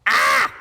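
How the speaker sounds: sudden loud "ah"; short startled yelp. Real, not acted. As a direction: let out a quick, sharp cry. Startled cry while playing game.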